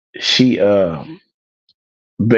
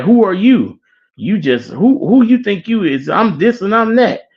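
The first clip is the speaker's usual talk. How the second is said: high, mock-indignant sneering questions; nasty challenge; 11 semitones higher than usual. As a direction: imitate someone rudely sizing up a stranger. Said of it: "like, nasty with him".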